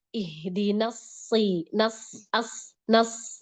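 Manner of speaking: Ihdinas slow, the S heavy and thick from the start; thick sod. Shown as a demonstration. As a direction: thicken the S of nas right away. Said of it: "udah tebel".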